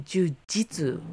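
"jiu-jitsu" echoed slowly as "joo-jitsu"; American pronunciation. Retold or imitated. Echoing co-host's English word, slow "jiu-jitsu" with "jit". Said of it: "Oh, you say".

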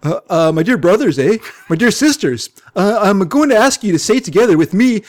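mystic guru with a put-on Canadian accent. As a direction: address the faithful in a Canadian accent. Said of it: "Give him a thick Canadian accent".

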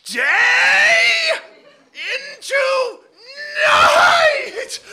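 screaming each word, very high and loud; spaced-out spell scream; yelled incantation. Acted. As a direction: bellow it word by word to force the spell. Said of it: "I said".

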